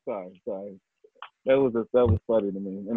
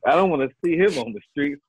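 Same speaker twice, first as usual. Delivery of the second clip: laughing; 4 semitones higher than usual. Retold or imitated. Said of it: "my mind's like".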